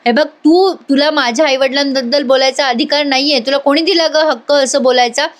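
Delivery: hurt and close to crying; hurt, near tears. Acted. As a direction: push back through sudden tears. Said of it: "टचकन डोळ्यात पाणी आणते आणि म्हणते".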